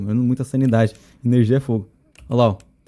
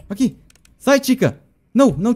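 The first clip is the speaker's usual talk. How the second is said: high, loud panicked shout; panicked yell; 9 semitones higher, 6 dB louder than usual. Real, not acted. Shouting at the character Tica, panicked.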